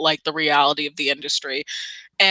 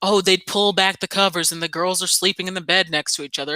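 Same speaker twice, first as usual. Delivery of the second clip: ordinary delivery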